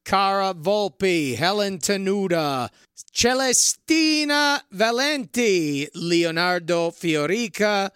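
drawn-out announcer reading of names; shout-out roll call. Acted. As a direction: savor each name like a ring announcer, slowly. Reads producer credits as a shout-out.

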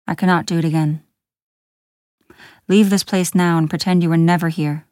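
gruff, forceful dismissal; stern, burdened man's warning; growling voice. A narrator's reading. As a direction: push the visitor away with grave weight. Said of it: "The growling voice belonged".

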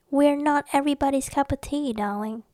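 hammed-up, badly faked English accent; lightly mocked English accent. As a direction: put on a jokey English accent. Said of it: "a very bad English accent".

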